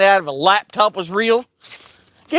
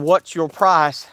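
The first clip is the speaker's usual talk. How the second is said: slow question; 2 semitones lower, slower than usual. Acted. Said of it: "the question".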